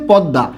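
পদ্মা with the m turned to d; everyday pronunciation. Shown as a demonstration. Teacher shows how we say it, pronounced podda. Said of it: "আমরা উচ্চারণ করি হচ্ছে".

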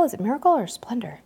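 fast whispered musing under her breath; whispered aside. Real, not acted. Host wondering aloud which ship, whispering. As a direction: mutter it to yourself, unsure.

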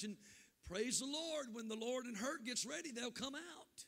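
loud, slow commanding call. Retold or imitated. Preacher calling to Brother Hines across the church, loud. Calling out order during service.

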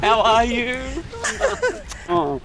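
a son hamming up his hello to Mum; gushing greeting. Acted. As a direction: greet Mum as if it's been years.

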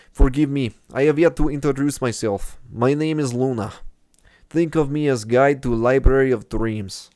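put-on lightly accented Russian reading. Gamer reading the guide's introduction in a mild Russian accent. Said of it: "my Russian accent".

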